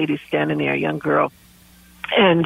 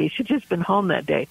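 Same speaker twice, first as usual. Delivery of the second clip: the lament repeated softer, fading away; softer second saying of the regret; upset grief; 4 dB quieter, faster than usual. Retold or imitated. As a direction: let the repeat drop quieter, half to herself. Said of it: "And she was so upset".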